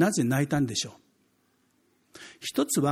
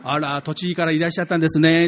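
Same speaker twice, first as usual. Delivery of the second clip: Tokyo lady; 6 dB louder than usual. Retold or imitated. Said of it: "東京行くとすぐバレるんです".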